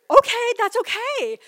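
high, loud, laughing tearfully; laughing through tears. Real, not acted. Telling her boyfriend it's fine, laughing tearfully.

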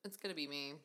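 talking with cherries in mouth; words round a bite of cherry; chewing while talking. Real, not acted. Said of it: "if you hear us eating them".

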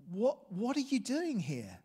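mild impression of a weary, tearful pastor; weary pastor's plea. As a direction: ask it like a tired, heartbroken man. Weary pastor greets the visitors.

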